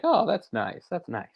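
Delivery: a light pleasant Kentucky lilt, high on the "Oh"; imitating a Kentucky speaker, sweet even when annoyed; mock Kentucky politeness. Mimicking polite Kentucky speech, lightly sung. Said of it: "sounds really kinda pleasant and polite".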